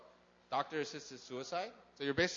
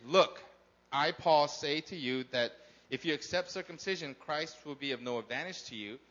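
scripture reading. Acted. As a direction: proclaim the verses to the congregation. Reads Galatians five aloud.

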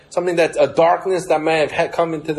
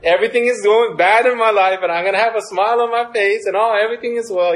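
fake cheerfulness; 6 semitones higher, faster than usual. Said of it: "like those fake people".

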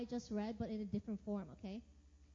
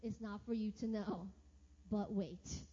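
calm God; 6 semitones lower than usual. Retold or imitated. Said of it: "But God says".

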